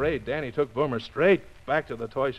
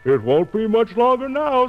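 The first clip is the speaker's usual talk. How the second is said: happy sigh; 7 semitones higher, 5 dB louder than usual. Acted. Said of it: "sighed Boomer happily".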